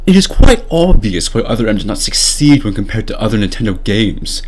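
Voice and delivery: lightly voiced parody of Sakamoto; mock Sakamoto reading. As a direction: read it as a smug, clueless director. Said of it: "I'm going to read the entire article to you".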